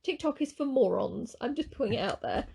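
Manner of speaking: a hint of a mocked mum; mum's voice, mocking. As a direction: lightly put on your mother's voice. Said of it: "She sounds like her mum".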